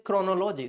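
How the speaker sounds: chronology with every O full; wrong CHRONOLOGY. Shown as a demonstration. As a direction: break chronology into chrono plus logy. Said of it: "pronunciation are wrong".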